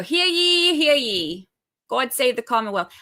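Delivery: lightly mocked bailiff announcement; court crier call. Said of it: "they go".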